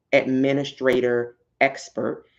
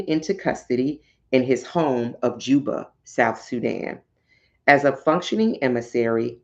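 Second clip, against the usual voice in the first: reading aloud. Acted. Reads excerpt from her book.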